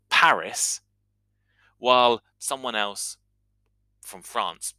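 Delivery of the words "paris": Paris said the English way, S sounded; Paris with a puffed English P; English pronunciation. Shown as a demonstration. Teacher showing how English people say it, Paris anglicised. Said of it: "why an English person might say".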